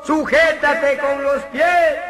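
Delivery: agudo, lento y fuerte; voz de personaje. Acted. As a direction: gritarle al de abajo desde arriba. Personaje de arriba. (el de arriba grita hacia abajo, lento y agudo)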